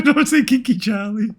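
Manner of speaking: laughing while protesting. Real, not acted.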